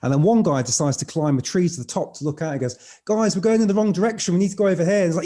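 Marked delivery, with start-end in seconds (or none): 3.1-5.0 calling out. Retold or imitated. Man calls down from the treetop.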